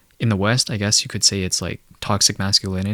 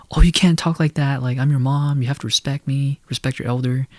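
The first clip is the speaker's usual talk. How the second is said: mock scolding mother, higher voice; imitating mom; 5 semitones higher than usual. Mom scolding her son for talking back, mock indignant higher voice. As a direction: play the indignant mom demanding respect, pitched up. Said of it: "She'd be like".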